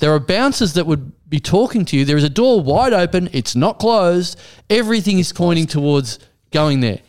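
emphatic, point-by-point retold explanation; exasperated insistence. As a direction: hammer each proof home in mock exasperation. Retold exasperated directions to texter.

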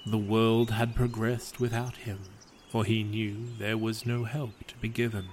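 calm, even storyteller read of a gentle fable; story narration. A narrator's reading. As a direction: tell it like a bedtime legend. Reads a fable aloud.

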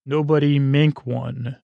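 "mink one" read exactly as scrawled; literal misreading. Shown as a demonstration. Host deciphering own handwriting, literal misreading of "mink one". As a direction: say "mink one" literally, slowly, as nonsense words. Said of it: "this is literally what my handwriting says".

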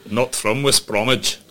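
slow, put-on West Bromwich accent. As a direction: lay on a West Brom accent slowly. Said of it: "leave you to do the accent".

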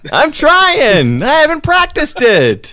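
put-on high, laughing Yiddish old man; Yiddish accent. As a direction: keep the Yiddish accent going. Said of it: "that was your Yiddish accent".

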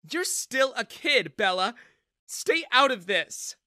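loud, high, slow stern reprimand; stern warning. Acted. Mother tells her daughter to back off, stern. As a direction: put her in her place, slowly. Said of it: "Jessica frowned".

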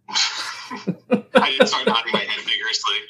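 high, slow laugh through the words. Real, not acted. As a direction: giggle the words out. Laughs while describing nodding.

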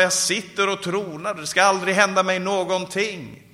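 smug certainty, retold from the pulpit; self-assured boast. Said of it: "Hon var självsäker".

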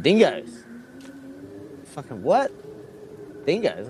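mock alarmed double take; startled repeated question; shocked disbelief. Retold shock at the farmer's news.

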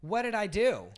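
high, pleading innocence; mock innocent. Lauren mocks Heidi's innocence, high and whiny. Acted quarrel, playing innocent.

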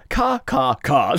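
mock the options by stepping "car" down; mimicking falling pitch. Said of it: "That's like me saying".

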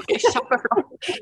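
drawn-out high "ok, kjempeflott"; sarcastic great, laughing underneath; mock cheerful okay. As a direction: fake enthusiasm, slow and high. Mock reply to attendant, laughing.

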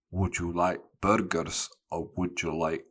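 lightly attempted Scottish accent. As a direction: retell it with a hint of Scottish. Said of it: "imagine this is a Scottish accent".

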